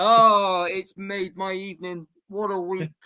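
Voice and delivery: crying with laughter. Laughing at another speaker's annoyance, laughing to tears. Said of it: "I actually got tears now".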